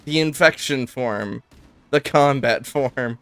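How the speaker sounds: slow, solemn prophet announcement. Retold or imitated. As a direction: intone it like a prophet. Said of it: "some sort of prophet to go".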